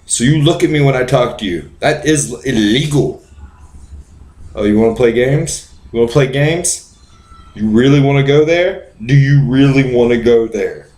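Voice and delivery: bossy traffic cop interrogating; lightly voiced bullying cop; power-drunk cop. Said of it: "I'm a cop drunk with power".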